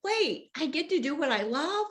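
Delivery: lightly acted lightbulb moment; dawning realization. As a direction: act out a kid suddenly getting it. Acts out kids suddenly getting it.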